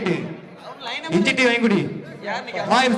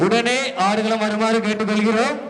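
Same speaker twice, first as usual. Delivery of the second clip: steady public address announcement; announcer. Acted. Announcer declaring the winning team to the crowd. Final call for teams.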